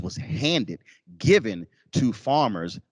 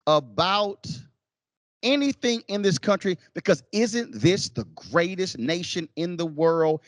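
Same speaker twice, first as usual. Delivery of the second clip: mock indignant patriot; 7 semitones higher, slower than usual. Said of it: "what they're saying is".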